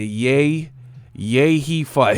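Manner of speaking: loud, hammed-up Old English herald; mocking a chat message in loud fake Old English; mock medieval voice. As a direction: announce it like a mock royal crier. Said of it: "talking in medieval talk".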